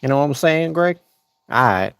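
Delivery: a loose Southie guy bragging; a hint of a Boston tough-guy accent. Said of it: "To Boston?".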